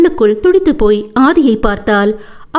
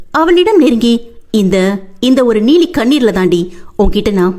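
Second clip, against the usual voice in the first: sarcastic husband. Acted. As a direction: sneer at her fake tears. Husband mocks her tears.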